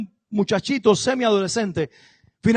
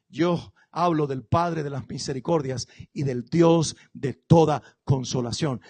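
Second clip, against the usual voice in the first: cita lenta; 5 semitones lower, slower than usual. Retold or imitated. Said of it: "Recuerdan a Pablo".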